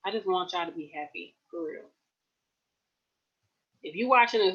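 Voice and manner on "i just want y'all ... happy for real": emotional. Real, not acted. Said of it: "I'm not trying to get emotional".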